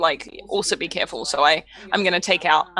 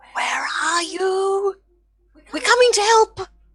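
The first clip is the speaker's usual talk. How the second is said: whisper, higher; 13 semitones higher than usual. Sneaking through ruins in character, calling to survivors: whispering in character. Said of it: "I've started, like, whispering".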